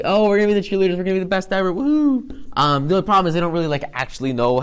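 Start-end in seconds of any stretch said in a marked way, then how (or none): 0.0-2.4 higher, bubbly mock cheer; playful imitation of thrilled ponies; eager cheerleaders. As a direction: hype it up like new cheerleaders. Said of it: "and they're like".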